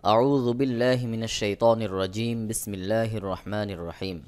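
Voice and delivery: measured opening invocation; Arabic recitation. Real, not acted. Teacher opens the lesson with ta'awwudh and bismillah, recited.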